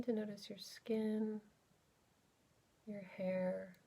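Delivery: unhurried, exploratory guided body scan; guided meditation. Real, not acted. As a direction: gently lead listeners inward, leaving space between phrases.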